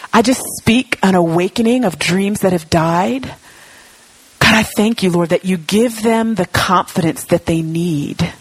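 steady, fervent prayer over the room; earnest prayer. Real, not acted. Pastor praying over the congregation, fervent prayer voice. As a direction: release blessing over them like a pastor.

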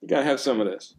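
high, loud delighted gushing; excited food rave. Retold or imitated. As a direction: rave about the food, thrilled. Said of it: "I'm gonna let people know".

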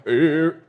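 high, loud drawn-out warble; impersonation of a singer. Shown as a demonstration. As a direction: abortive attempt at a folk singer's note. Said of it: "very convincing singer impersonation".

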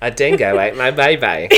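Australian accent. Shown as a demonstration. Cohost answering with a stock line, mock Australian accent. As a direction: do a jokey, amateur Australian accent. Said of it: "a few words in Australian".

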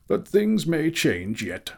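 high, slow warning; reproving wizard Gandalf. A narrator's reading. Gandalf continues.

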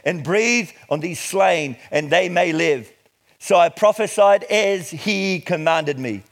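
measured, emphatic Bible reading; declaimed scripture with weighted key words. Acted. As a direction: read it out deliberately to a congregation. Reads scripture to congregation.

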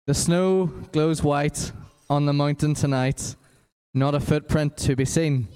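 flat, bored monotone reading. Shown as a demonstration. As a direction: read it dead flat and boring. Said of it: "in a really boring, monotone voice".

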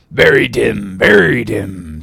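drawn-out odd prophet voice; Elijah's voice. Acted. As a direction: stretch the second phrase out slowly. Elijah muses, put-on voice.

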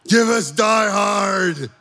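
loud, high, the second half slow; excited kids shouting. Retold or imitated. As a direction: cheer it like eager boys. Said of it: "we're like".

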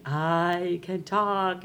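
very slow, stretched-out words; mystery phone voice. Acted. Mystery caller on the third night, slow eerie drawl. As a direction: draw it out eerily at an easy volume. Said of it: "same thing".

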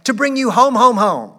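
high, loud, eager little sister voice; a small girl bursting with joy to fetch her brother; excited little girl. A narrator's reading. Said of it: "clapping her tiny hands and bending down to laugh".

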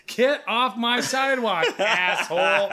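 half-laughing re-enactment of telling him off; mock angry yell. Driver yells at scooter rider, mock angry.

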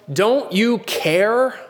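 high, slow, pleading question; anxious disciples. Retold or imitated. Disciples waking Jesus in the storm, high pleading.

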